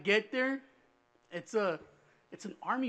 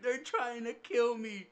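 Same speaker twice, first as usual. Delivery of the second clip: slow, higher mock-tearful plea; retold crying; 5 semitones higher, 4 dB louder, slower than usual. Son answering mom on the phone, mock tearful. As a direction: imitate a kid sobbing to mom, understated. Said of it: "I'm fucking crying shit".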